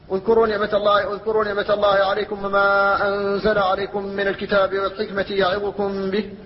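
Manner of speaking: measured recitation with elongated vowels; Quran recitation. Acted. Teacher quoting a verse to students, measured recitation.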